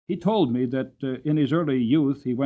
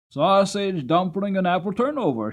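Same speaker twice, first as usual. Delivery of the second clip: put-on boy's gleeful shout, higher and louder; excited shout; 7 semitones higher, 5 dB louder than usual. Boy answers his mother about supper, gleeful shout. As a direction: blurt it out like an eager boy. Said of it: "shouted the boy".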